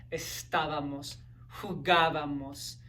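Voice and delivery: estábamos, jugábamos, each leaning on the á; stress on accented A. Shown as a demonstration. Giving students ar-verb examples, accented á stressed in estábamos, jugábamos. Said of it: "always gonna have an accented A".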